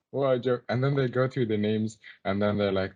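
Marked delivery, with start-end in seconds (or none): 0.1-0.6 imitating amused scoffers, higher pitched; put-on derisive amusement; mock laughter. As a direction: scoff it as if tickled. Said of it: "they're all laughing".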